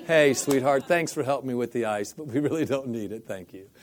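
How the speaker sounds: sugar-coat the refusal, half in jest; nicer version. Pretend. Speaker redoing his refusal to the ice lady, mock sweet. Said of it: "I'll be nicer next time".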